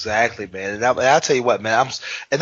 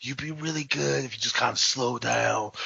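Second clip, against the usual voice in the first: imitating Damian Wayne. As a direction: hush it down like a mentor giving ring advice. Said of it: "he sounds like this".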